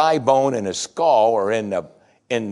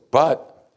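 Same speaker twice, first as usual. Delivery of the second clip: BUT set off, higher; stressed BUT, marking the contrast; strong contrast; 4 semitones higher, 4 dB louder than usual. Acted. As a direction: hit BUT as a sharp turn in the argument. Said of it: "strong contrast".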